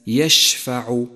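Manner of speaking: يشفع said slowly with a full, spread sh; lingering sh in يشفع; spreading shin. Shown as a demonstration. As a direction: let the ش in يشفع fan out through the mouth. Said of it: "لاحظ صفة التفشي لحرف الشين".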